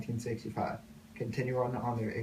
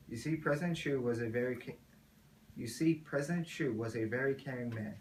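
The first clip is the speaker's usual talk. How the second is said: solemn narration; 3 dB quieter than usual. Acted.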